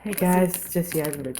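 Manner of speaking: very soft, hushed celebrity impression; Jesse Eisenberg. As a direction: introduce yourself in character, almost whispering. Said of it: "you gotta whisper".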